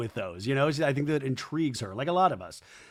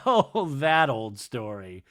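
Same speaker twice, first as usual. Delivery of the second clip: mock Janet; 3 semitones lower, slower than usual. Janet's reply voiced in recap.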